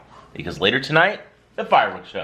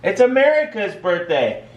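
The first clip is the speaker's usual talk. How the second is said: talking to toddlers; 5 semitones higher, slower than usual. Real, not acted. Parent talking to little kids.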